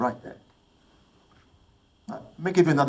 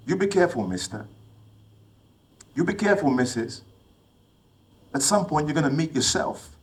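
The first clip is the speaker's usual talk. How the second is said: mock warning; 4 semitones higher than usual. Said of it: "I always say to myself".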